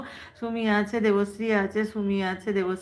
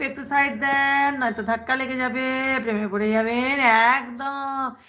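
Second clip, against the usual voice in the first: playful crowd clearing; 3 semitones higher than usual. Pretend.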